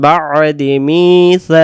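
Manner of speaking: slowed chanted recitation; Quran recitation. Shown as a demonstration. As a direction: draw the words out. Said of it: "teacher chants the verse again". (ধীর সুরে পড়া)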